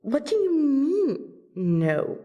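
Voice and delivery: high-pitched surprised protest; taken aback. Acted. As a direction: question it in high-pitched disbelief. Friend refuses the requested dance.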